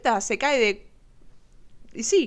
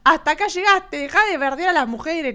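retold telling-off; 4 semitones higher, 3 dB louder than usual. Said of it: "Y le dijo".

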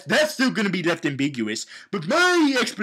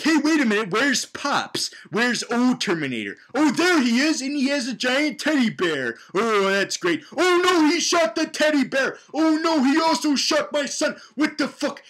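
hammed-up shock at the shooting; mock panicked Sarah; 8 semitones higher than usual. Sarah Connor watching the Terminator shoot, mock panic and higher. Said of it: "they're like".

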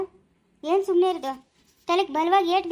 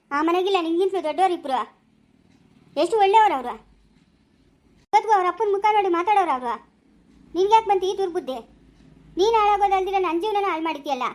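furious scolding. Acted. Accusing wife in hospital quarrel.

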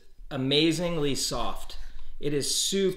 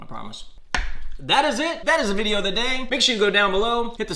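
speaking around a bite; talking while chewing; 3 semitones higher, faster than usual. Real, not acted. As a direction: mouth partly full of food. Seen 2: Man takes a bite off his fork mid-phrase, then keeps chewing.

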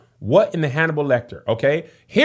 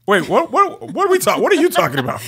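panicked disbelief; 8 semitones higher, faster than usual. Pretend. Shocked realization.

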